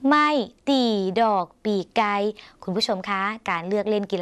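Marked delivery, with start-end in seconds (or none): 0.1-2.1 "ไม่ ตี ดอกปีไก่" given word by word with pauses; teacher's answer, spacing out "ไม่ ตี ดอกปีไก่"; demonstrated Lao term. Shown as a demonstration. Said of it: "ก็ต้องเรียกว่าอะไรคะ".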